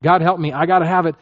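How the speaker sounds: a hint of desperate clinging, half-acted; anxious grasping. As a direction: repeat it like a fretful grab. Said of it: "actually thinking".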